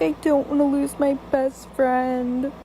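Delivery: slow, drawn-out mock whine of a tearful friend; mild put-on tearfulness; imitated crying. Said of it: "started crying. She was like".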